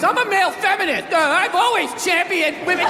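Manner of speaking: lightly voiced nerdy guy; mock male feminist. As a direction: play the earnest simp.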